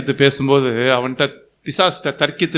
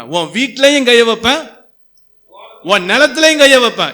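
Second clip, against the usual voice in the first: higher-pitched, forceful preacher delivery; emphatic preaching; 6 semitones higher, 3 dB louder than usual. Acted. Preacher expounding a judgment verse to the congregation, emphatic preaching.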